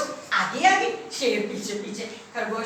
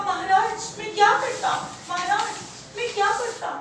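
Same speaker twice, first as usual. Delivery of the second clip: higher, helpless rabbit; pleading excuse; 6 semitones higher than usual. Acted. Rabbit excuses his lateness to the king, pleading. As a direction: protest with rising questions.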